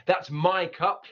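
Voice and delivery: my punched; stress on my. Shown as a demonstration. Teacher showing a stressed my in That's my cup. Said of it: "there's emphasis on it".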